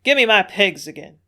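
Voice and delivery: loud angry sailor; growled demand. A narrator's reading. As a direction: bark it at them. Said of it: "growled Jake".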